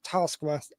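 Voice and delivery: lightly imitated New Zealand vowel in task; demonstrating a New Zealand taskmaster; New Zealand pronunciation. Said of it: "just the way they say".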